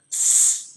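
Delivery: a long hissed "s", no vocal buzz; voiceless S sound. Shown as a demonstration. Teacher demonstrating English consonants to learners, voiceless S. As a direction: hold "s" as pure unvoiced air. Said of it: "berikutnya ada bunyi yang".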